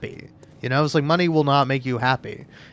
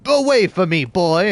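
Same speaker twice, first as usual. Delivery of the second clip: louder, higher snobbish rich-man bark; Scrooge; 4 semitones higher, 4 dB louder than usual. Retold or imitated. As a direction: shoo the orphan off like a cruel miser. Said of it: "acting like goddamn Scrooge".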